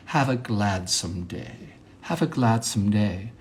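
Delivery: slow, softened affected delivery. Shown as a demonstration. Monologist showing an affected way to say goodbye, mannered and slow. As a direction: draw it out with put-on refinement. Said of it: "affected way of saying that".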